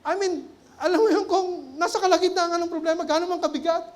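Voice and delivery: amused, laughing delivery. Real, not acted. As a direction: chuckle while you explain. Laughs while explaining.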